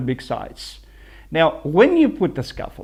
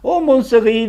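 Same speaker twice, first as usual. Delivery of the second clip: "Oh, mon Seri" in a mock French accent, higher and louder; French flourish; 4 semitones higher, 4 dB louder than usual. Shown as a demonstration. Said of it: "that's a French name".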